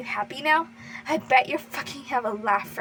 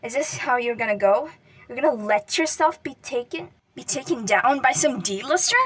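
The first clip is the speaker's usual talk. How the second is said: loud, bitter taunt; angry yelling; 7 dB louder than usual. Acted. Katsuki yelling at the boy in his grasp, angry. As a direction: yell it down at him. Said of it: "Katsuki yelled angrily".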